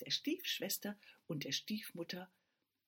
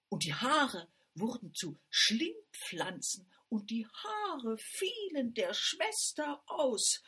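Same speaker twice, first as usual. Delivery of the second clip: dramatic telling; 4 semitones higher, 7 dB louder, slower than usual. A narrator's reading. Dramatic reveal of the hair.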